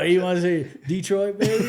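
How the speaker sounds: Detroit in his own Michigan accent, laughing; playful accent demo. Shown as a demonstration. Guest asked to say Detroit, playful accent demo. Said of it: "Ask him to say Detroit".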